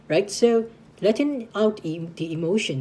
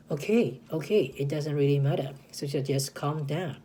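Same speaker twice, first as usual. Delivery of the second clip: calm voice; 3 semitones lower, 4 dB quieter than usual. Retold or imitated. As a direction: settle an upset friend gently. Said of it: "talking in a calm voice".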